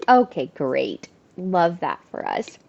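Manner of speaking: deadpan sarcasm, unimpressed; sarcastic. Real, not acted. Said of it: "sarcastic reaction".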